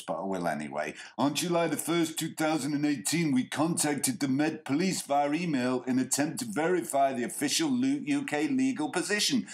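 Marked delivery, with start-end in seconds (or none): 1.2-9.5 lazy stoner voice. Retold or imitated. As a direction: read it like a stoner. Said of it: "I'm giving him a stoner voice".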